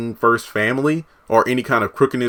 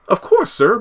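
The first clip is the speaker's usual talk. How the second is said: lightly voiced servant; 10 semitones higher than usual. Priscilla's voice in retelling.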